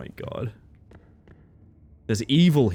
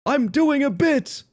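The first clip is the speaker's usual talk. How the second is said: whiny high protest; 10 semitones higher, slower than usual. Real, not acted. Defending joke in high whine.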